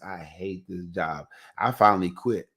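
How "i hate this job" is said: slow, lower-key mock complaint; retold grumble. Telling what he told Sasake daily, slow retold grumble. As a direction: drag it out softly, as a daily grumble.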